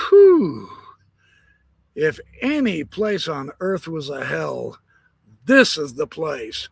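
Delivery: put-on a slow, hushed Brigham Young, not really whispering; half-hearted whisper of dismay. Brigham Young muttering to himself over the valley. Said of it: "Brigham whispered to himself and he goes".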